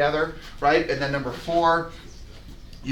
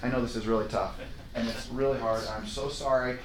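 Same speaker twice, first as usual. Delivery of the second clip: lower, softer sympathy; soft nurturing; 5 semitones lower, 10 dB quieter than usual. Shown as a demonstration. Agent consoling the seller softly. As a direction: comfort the seller gently. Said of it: "great, nurturing".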